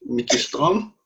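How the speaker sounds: a non-Jamaican echoing "Mickey Strom?" with a questioning rise; failed Jamaican attempt. Shown as a demonstration. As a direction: try the Jamaican patois phrase "Mickey Strom" and miss it. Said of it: "No, I didn't get that right".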